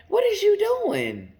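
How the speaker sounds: loud, high-pitched indignant outburst; retold anger. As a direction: re-enact being pissed off, pitch jumping up. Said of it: "instantly I got pissed off".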